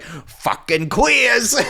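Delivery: laughing so hard the quote comes out high. Retold or imitated. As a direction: squeal it out while cracking up. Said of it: "He's like".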